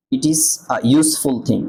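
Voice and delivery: slow demo reading. Shown as a demonstration. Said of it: "ইউ উচ্চারণ হয়েছে".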